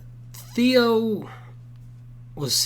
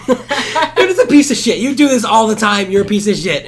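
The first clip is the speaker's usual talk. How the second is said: put-on drunk insult; 7 semitones higher, 7 dB louder than usual. Retold drunk friend insulting Theo.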